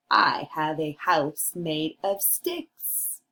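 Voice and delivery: a slow, deep little pig proudly telling; second little pig. Acted. Teacher reads second pig's line.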